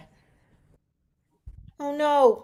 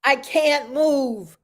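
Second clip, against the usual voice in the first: slow, higher, breathless panic; panicked gasps; 3 semitones higher, slower than usual. Acted. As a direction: gasp each line out in fear. Panicking, stuck in mud.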